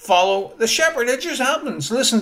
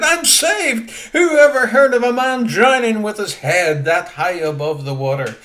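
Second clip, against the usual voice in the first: joyful shout; 2 semitones higher, 5 dB louder than usual. Retold or imitated. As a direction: shout it out, overjoyed. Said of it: "he shouted".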